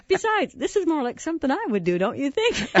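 put-on high, earnest boy's plea; mock teary kid reasoning; imitating tearful son. Mom voicing her sobbing son taking the blame, high and earnest. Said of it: "And he goes".

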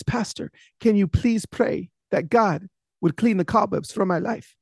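lightly voiced old lady imploring her pastor; a hint of a weepy plea, without sobs; tearful old lady pleading. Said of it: "and she is still crying".

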